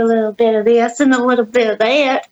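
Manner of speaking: playful American southern accent; hammed-up American twang; put-on American accent. Shown as a demonstration. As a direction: do a bit of a drawly American accent. British speaker demonstrates American accents.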